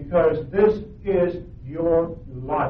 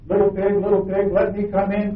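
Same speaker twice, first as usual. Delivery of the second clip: a lightly voiced wolf calling out, a bit louder; 3 semitones higher, 4 dB louder than usual. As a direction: call through the door like a sly wolf. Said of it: "called the wolf".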